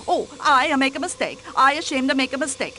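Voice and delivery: lightly put-on Swedish accent, only a hint of it; a touch of Swedish accent mimicking the nurse; mock Swedish accent. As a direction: imitate the Swedish nurse's accent, half-hearted. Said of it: "in that bizarre accent of hers".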